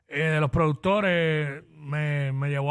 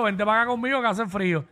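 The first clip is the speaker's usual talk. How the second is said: laughing. Retold or imitated. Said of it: "la señora dijo".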